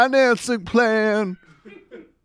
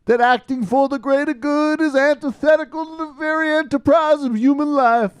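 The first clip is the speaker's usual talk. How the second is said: lightly mock civil-rights oratory; switching impression voices. Mock MLK speech voice.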